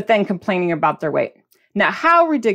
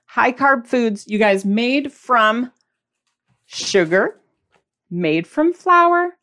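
slow, deliberate words with a pointed pause; slow dramatic emphasis; much slower than usual. Shown as a demonstration. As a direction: drag each phrase out for effect. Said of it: "I said it real dramatically".

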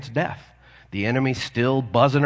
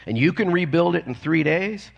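higher-pitched, lightly acted disbelief; mock exclamation; 6 semitones higher than usual. Religious leaders doubting the temple rebuild, mock exclamation. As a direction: challenge him with incredulous questioning. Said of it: "they exclaimed".

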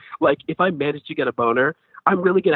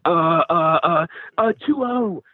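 clueless fake bro; 3 semitones higher, much slower than usual. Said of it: "pretend to know anything about football".

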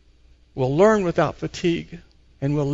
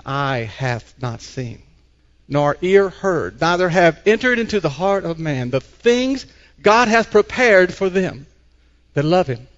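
scripture reading; slower than usual. Acted. Reads King James scripture aloud.

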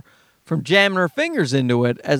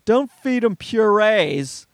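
mocking quote. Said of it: "I hate that when they just".

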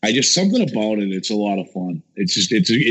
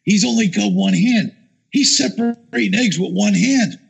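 mocking the producers; 10 semitones higher than usual. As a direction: mimic the fussing producers in a lifted voice. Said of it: "they're going".

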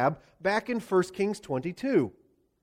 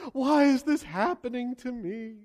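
hammed-up outraged king; scandalized whine. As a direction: play the wounded victim blaming God. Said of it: "He acts scandalized".

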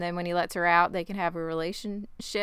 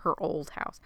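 eerie hushed echo; 3 semitones lower, 6 dB quieter than usual. Retold or imitated. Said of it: "the way she said that made me, like, just shiver".

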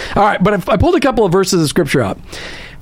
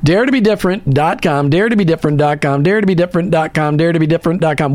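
over enunciating; 4 semitones lower than usual. Shown as a demonstration. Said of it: "Let me say it slowly".

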